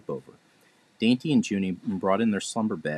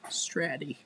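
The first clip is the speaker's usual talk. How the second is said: sobbing; 8 semitones higher, 7 dB quieter than usual. A narrator's reading. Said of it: "sobbed Cello".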